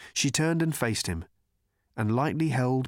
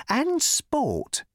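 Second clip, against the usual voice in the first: put-on higher, pleading young man; earnest worried cricketer. A narrator's reading. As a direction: explain your worry politely. Cricketer agreeing.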